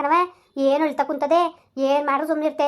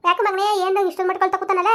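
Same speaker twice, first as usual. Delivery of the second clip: worried cooing; 5 semitones higher than usual. Acted. Worried soothing of baby.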